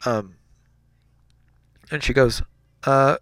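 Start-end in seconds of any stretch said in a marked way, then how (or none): 2.8-3.2 higher, drawn-out motherly refusal; lightly voiced mom saying no, stretched out; mother's voice. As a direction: put on a mom voice, slow and higher. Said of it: "That's my mother, apparently".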